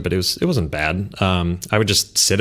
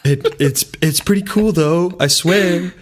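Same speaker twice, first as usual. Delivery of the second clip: laughing; 8 semitones higher than usual. Retold or imitated. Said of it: "I'm like".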